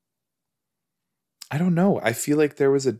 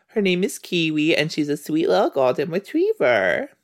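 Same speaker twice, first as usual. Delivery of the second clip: higher-pitched pet-talk voice; doting, raised pitch; fond doting voice; 5 semitones higher than usual. Real, not acted. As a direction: gush sweetly about a beloved dog. Introduces roommate's sweet dog.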